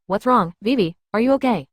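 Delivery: talking through a mouthful of food; mouth full. Acted. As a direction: speak round a big bite. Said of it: "with a mouthful of food".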